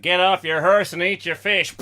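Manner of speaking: loud hammed-up British accent; mock British accent. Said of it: "that's like a British accent".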